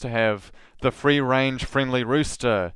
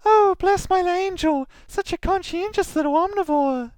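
doting parent; 3 dB louder than usual. Acted. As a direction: gush over your little angel in falsetto. Voices a doting parent replying.

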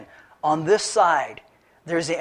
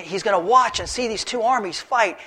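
normal talking voice

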